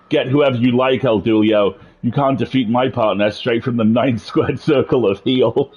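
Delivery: villain shout. Acted. Voicing a villain character.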